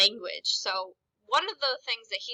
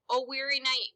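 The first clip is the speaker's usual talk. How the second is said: tired; 3 semitones higher than usual. Shown as a demonstration. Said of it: "means tired".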